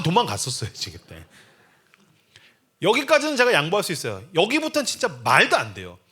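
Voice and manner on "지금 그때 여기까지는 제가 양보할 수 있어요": ordinary talk, nothing marked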